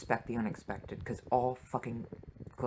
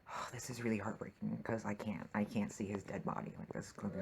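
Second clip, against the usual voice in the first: whispered, heartbroken at the screen; hushed whisper; 6 dB quieter than usual. Real, not acted. Viewer whispers as she watches the body scene, stunned.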